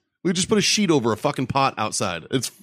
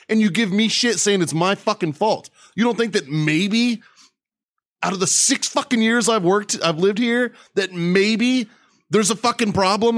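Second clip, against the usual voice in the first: retold angry rant; 3 semitones higher than usual. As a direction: go off on the billing lady. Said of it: "I fucking went off on his bitch".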